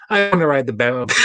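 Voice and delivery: put-on fast, shouted little kid demand; an eager toddler yelling for his toy; imitating toddler. Dad imitates his three-year-old begging to ride the Batmobile, a fast, eager shout.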